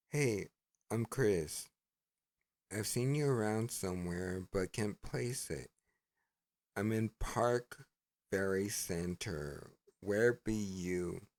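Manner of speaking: reading his message. Retold or imitated. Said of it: "he goes".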